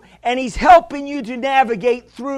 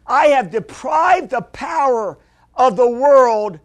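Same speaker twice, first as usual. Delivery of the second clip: preaching shout; 4 dB louder than usual. Real, not acted. Pastor proclaiming scripture loudly.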